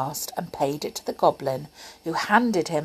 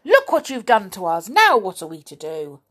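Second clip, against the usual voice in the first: angry; 4 dB louder, faster than usual. Acted. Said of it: "cried Moonface angrily".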